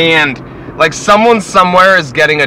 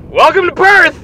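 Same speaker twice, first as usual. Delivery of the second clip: very high, loud mock-cheerful cry; sardonic shout; 14 semitones higher, 6 dB louder than usual. Real, not acted. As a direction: belt out a sarcastic welcome.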